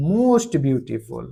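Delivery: slow, deliberate. Shown as a demonstration. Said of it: "इसका superlative हो जाएगा".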